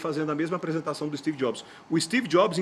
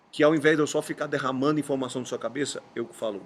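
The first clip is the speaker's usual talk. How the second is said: usual speaking voice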